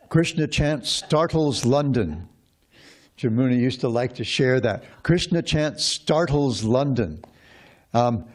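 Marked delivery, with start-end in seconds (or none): 0.1-2.3 slow, high-pitched headline announcement; proclaimed headline. Retold or imitated. Teacher quoting a favorite headline to the class, proclaimed slowly. Quotes a celebrated headline with relish. 5.0-7.2 slow, high-pitched headline announcement; proclaimed headline. Retold or imitated. Teacher quoting a favorite headline to the class, proclaimed slowly. Repeats the headline after an aside.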